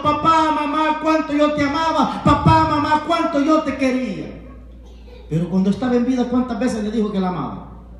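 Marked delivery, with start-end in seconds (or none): 0.0-4.3 raised, mock-wailing grown children at a parent's wake; mock crying children. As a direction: imitate the children's show of weeping, higher. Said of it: "llegan los hijos llorando".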